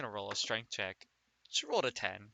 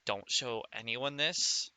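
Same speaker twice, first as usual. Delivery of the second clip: secretive quiet voice; 2 semitones lower, 6 dB quieter than usual. Acted. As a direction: keep it quiet so nobody hears. Character secretly passes note.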